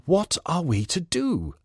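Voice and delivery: a master asking his servant for help; the lord. A narrator's reading. The lord voiced distinctly.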